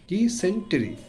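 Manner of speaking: ডিসেন্ট্রি counted out as di - sen - te-ri; syllable by syllable. Shown as a demonstration. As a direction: separate the three beats of ডিসেন্ট্রি. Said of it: "ভেঙে ভেঙে উচ্চারণ করব".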